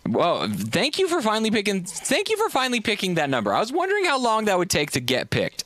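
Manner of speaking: mock relief. Real, not acted. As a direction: rib him for taking forever. Caller finally picks a number.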